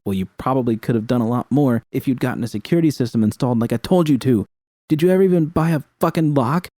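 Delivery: fast, rising scolding; angry reproach. Acted. V scolds the narrator about the lock, building anger.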